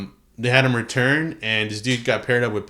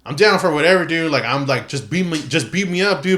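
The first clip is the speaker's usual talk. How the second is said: hyped bro voice; 4 semitones higher than usual. Retold or imitated. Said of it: "telling Brock Lesnar, like".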